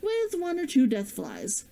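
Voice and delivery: calm storyteller reading a fantasy chapter; story narration. Acted. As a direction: read the chapter steadily to listeners. Reads her fantasy story aloud.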